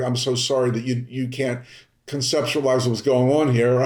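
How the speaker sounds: a touch of talking down in a mock apology; a hint of condescension, not fully hammed; condescending. Shown as a demonstration. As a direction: lightly play the smug apologizer. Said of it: "don't do a condescending".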